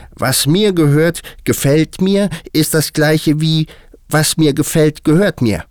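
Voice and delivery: very high, loud hare voice; high-pitched animal voice, insistent; argumentative March Hare. A narrator's reading. March Hare's figure continues argument.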